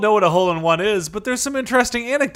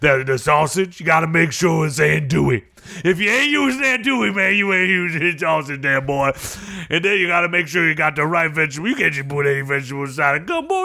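Cajun coach character. Acted. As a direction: ham up the folksy Southern coach. Coach explains gumbo in character.

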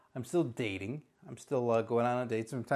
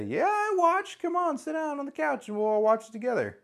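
much higher, bright-toned invitation to the couch; cheery inviting uncle; 10 semitones higher than usual. Retold or imitated. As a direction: beckon the kids over eagerly. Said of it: "And then you say".

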